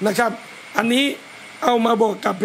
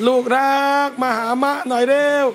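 tender call. Shown as a demonstration. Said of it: "โตก็ต้องกลับไปพูด".

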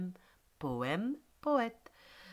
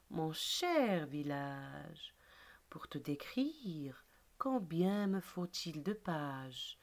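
slow, measured poem reading; poem recitation; slower than usual. Acted. Teacher reciting the village poem to pupils, slow recitation. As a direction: recite line by line, drawing out key words.

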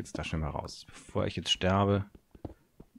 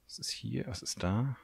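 whisper; 2 semitones higher, 5 dB quieter than usual. Real, not acted. Creeping through a dark cave.

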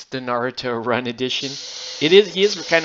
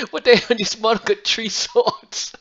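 put-on higher Asian accent, laughing through it; mock Asian mom, amused outrage; 8 semitones higher, 3 dB louder than usual. Son imitating his mom over a pricey model, laughing Asian accent. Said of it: "the Asian accents that Andrew and I do".

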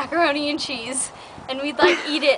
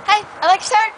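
cheery greeting; 8 semitones higher, 6 dB louder than usual. Retold or imitated. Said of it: "this is kind of how it played out".

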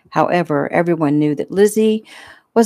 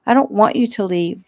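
put-on tearful child; 4 semitones higher than usual. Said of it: "Violet began to cry".

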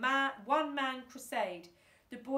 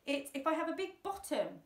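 high squeezed moan; 6 semitones higher, 4 dB louder than usual. A narrator's reading. Thumbs moaning from the cramped back seat, high whine. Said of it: "moaned Thumbs".

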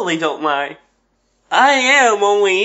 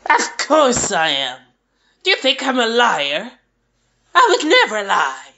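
voice break; 5 semitones higher than usual. Acted. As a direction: voice cracking on a lie. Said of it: "That voice break".

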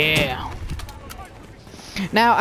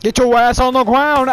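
mock police bark, a bit louder; tough cop voice; 2 semitones higher, 4 dB louder than usual. Gamer yelling at a game enemy in a cop voice. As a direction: play a gruff cop barking orders. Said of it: "I don't know why I like to do that voice".

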